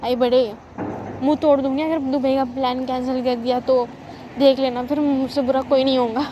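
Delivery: loud, playful angry threat; loud mock threat. Girlfriend threatening him over the Dubai plan, loud mock anger. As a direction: threaten loudly, half joking.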